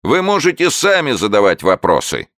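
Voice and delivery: high, loud crowing call; crowing showman. A narrator's reading. Showman crowing to the audience, high loud call. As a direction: crow it like a rooster. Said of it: "кукарекал человечек".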